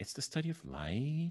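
question-like lift at the end on light. Mocking how upspeak sounds when explaining things: upspeak rise on light. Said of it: "it's great if you upspeak, like".

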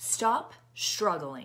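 stern, militant, drill-sergeant-style voice. Retelling what the class instructor said, imitating her militant voice. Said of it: "like in a militant voice".

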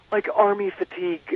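plain

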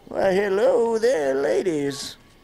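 put-on leering old man voice. Greeting ladies in a game, doing a Master Roshi voice. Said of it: "That's my Master Roshi right there".

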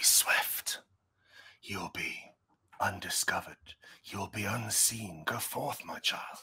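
queen voice, close, voiced stage whisper. Voicing a queen who whispers in a player's ear: queen whispering. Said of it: "the queen whispers in your ear".

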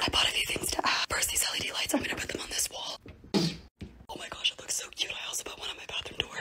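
soft, hushed whisper with a lost voice. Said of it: "I'm just gonna whisper".

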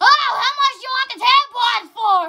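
loud high-pitched yell. Telling friends about store clerks and tampon buyers, imitating a clerk yelling loudly. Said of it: "I went really loud".

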